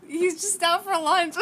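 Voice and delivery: slow, exaggerated retold reassurance; mock reassuring mother. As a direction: play the mom explaining, stretched out and hammed up. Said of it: "and she's like".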